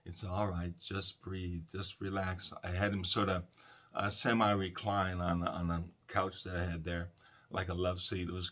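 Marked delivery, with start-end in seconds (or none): 0.0-2.5 calm soothing voice. Retold or imitated. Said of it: "I just spoke very calmly to him".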